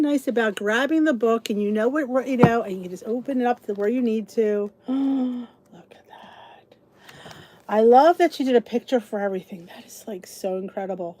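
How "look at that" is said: surprised gasp. Real, not acted. Gasps at cookbook.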